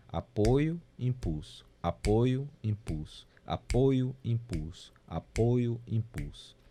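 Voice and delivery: even rhythmic pairs with no punched beat; support-impulse flow. Shown as a demonstration. Music teacher demonstrating natural binary flow, unaccented support and impulse. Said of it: "não tem nenhum tempo forte aqui".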